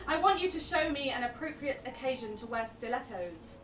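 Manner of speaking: rhythmic, measured poetry performance; spoken word poem. Acted. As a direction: deliver it like slam poetry. Performs poem Six Pound Thirty-One.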